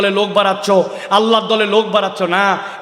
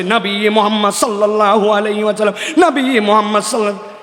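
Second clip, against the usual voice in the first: mock memorised answer, lightly chanted; rote recitation. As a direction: parrot it like a learned-by-heart reply. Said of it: "মুখস্থ করা করছে". (মুখস্থ বুলির মতো হালকা ভঙ্গিতে আওড়ানো)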